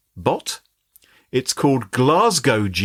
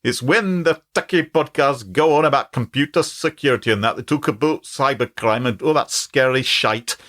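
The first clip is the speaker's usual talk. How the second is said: put-on amateur Scottish accent with a laugh breaking in; put-on Glaswegian accent. Chatbot explaining techie podcasts, in mock Glaswegian accent. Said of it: "quite an interesting Glaswegian accent".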